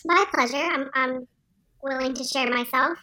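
cheery virus character voice; pleasant upbeat voice. Acted. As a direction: sound sweet and upbeat while saying dark things. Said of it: "such a pleasant and upbeat voice".

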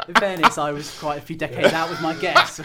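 laughing. Real, not acted. Laughing at own bad guess.

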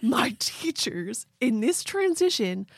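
laid-back surfer bro; Keanu surfer voice. Acted. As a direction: chill it out like a beach dude. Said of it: "I'm channeling Keanu".

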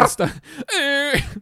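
high, very slow slur; slurred stretched word. Retold or imitated. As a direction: drag it out tongue-tied. Mimicking damaged tongue.

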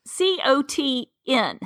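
C O T N spelled letter by letter, slowly; spelled-out correction. Shown as a demonstration. Guest corrects the co-host's cotton, slow spelling C O T N. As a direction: spell C O T N slowly to show the missing vowel. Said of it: "I think it's".

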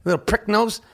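put-on a menacing coach dressing down a kid; Tom Izzo impression. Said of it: "my Tom Izzo impression that I'm perfecting".

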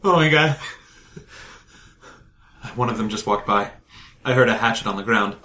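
low, hushed, scared vlog confession; scared vlogger voice. Acted. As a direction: whisper to the camera like you're hiding. Kurt records a scared vlog.

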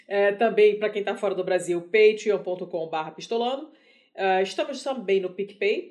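hoarse duck-like voice from reflux; honking voice. Real, not acted. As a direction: talk through strained vocal cords, a bit hoarse. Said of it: "Essa voz de pato que eu tô". (voz de pato rouca)

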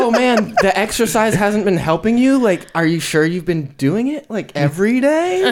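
feigned innocent disbelief; condescending mock concern. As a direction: imitate a therapist doubting the patient. Mimicking the condescending therapist.

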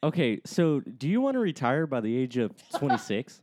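slick salesman hype; mlm recruiter pitch. Pretend. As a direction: recruit them to your crew. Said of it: "give me a pitch on slippers".

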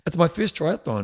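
a hint of posh southern English accent. Reading out a triathlon newcomer's remark, mildly posh southern accent. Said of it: "in my posh southern accent".

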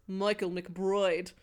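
slow, hammed-up Irish accent; mock Irish accent on the name; bad Irish accent. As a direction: broaden the vowels into a bad Irish brogue. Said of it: "that accent that I just did".

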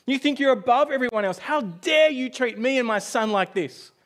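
high, loud furious yell, slowing at the end; father yelling at the surgeon as he leaves, enraged. Retold or imitated. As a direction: hurl it at him, outraged and loud. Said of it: "starts yelling at the surgeon".

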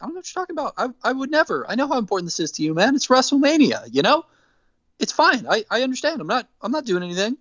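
high, airy voice of fake innocence; innocent denial. Al Snow lying to his partner, high and falsely innocent. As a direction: play it all innocent, too high to be believed.

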